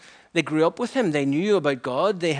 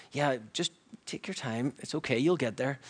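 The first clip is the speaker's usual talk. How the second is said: softened, easy encouragement; calm them down kindly and softly; gentle reassurance; 5 dB quieter than usual. Retold or imitated. Preacher tempering new believers' eagerness, reassuring.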